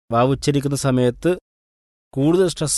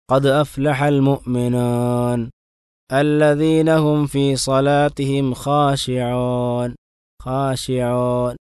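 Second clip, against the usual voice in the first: slow, drawn-out tajweed chant; slow Quran recitation; much slower than usual. Shown as a demonstration. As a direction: recite carefully, stretching each vowel.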